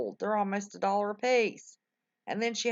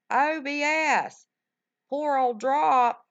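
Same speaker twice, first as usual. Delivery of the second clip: emphatic; 5 semitones higher, 5 dB louder, slower than usual. Real, not acted. Emphatic about the streaming setup.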